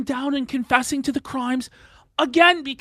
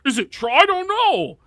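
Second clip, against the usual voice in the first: quoting him in a mock, higher innocent voice; mocking imitation; 7 semitones higher, 4 dB louder than usual. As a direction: parody his dodge, going up at the end. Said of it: "you can't just say that afterwards".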